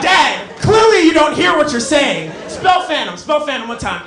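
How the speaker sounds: mock-exasperated snap at dad; retold snap at dad. Son snapping at his dad in the car, mock exasperation. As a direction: snap at him, half-hammed. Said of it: "I snapped".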